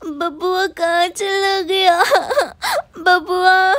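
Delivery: put-on tearful sobbing while calling for the baby; mother crying for her lost baby. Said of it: "रो मत".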